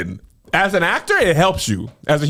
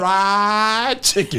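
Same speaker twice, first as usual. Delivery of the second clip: southern twang; much slower than usual. Retold or imitated. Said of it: "she has the southern twang".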